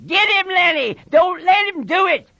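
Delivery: high, urgent yell. A narrator's reading. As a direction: urge him on from across the room.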